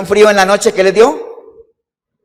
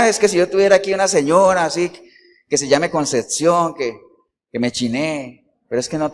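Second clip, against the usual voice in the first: sarcastic sigh; 6 dB quieter than usual. Retold or imitated. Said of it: "Eso es sarcasmo".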